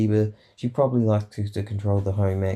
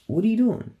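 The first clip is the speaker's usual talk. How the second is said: incredulous boss; 12 semitones higher than usual. Retold or imitated. Boss catches idle colleague.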